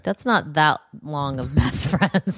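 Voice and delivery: laughing. Real, not acted. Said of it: "Tosh coming in with that brutal honesty".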